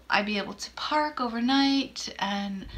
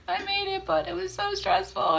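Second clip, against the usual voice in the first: relieved wail; 10 semitones higher than usual. Retold or imitated. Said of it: "I'm like".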